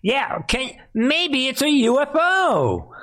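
high, laughing voice; cracking up in disbelief. Real, not acted. Host laughing at briefing.

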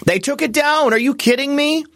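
high, exasperated disbelief; sudden incredulous outburst; surprised. Real, not acted. Site taken down, disbelief.

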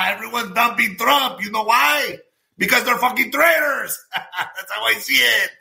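high, laughing outburst; laughing rant. Real, not acted.

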